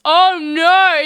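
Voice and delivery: sudden loud dismay; oh no, caught off guard; real shock at a mistake; surprised. Real, not acted. Streamer realizes audio muted.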